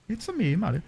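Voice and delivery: Italian cartoon plumber accent; mock Italian accent. Streamer trying an Italian Swedish accent, mock Italian. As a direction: put on a playful Italian accent. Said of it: "in an Italian Swedish accent".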